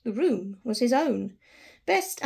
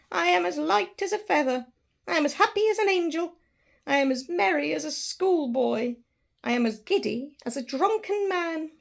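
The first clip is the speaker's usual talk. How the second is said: higher, bubbling with delight; giddy joy; 5 semitones higher than usual. Acted. Scrooge giddy on Christmas morning, gushing with joy. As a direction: rattle it off like a giddy schoolboy.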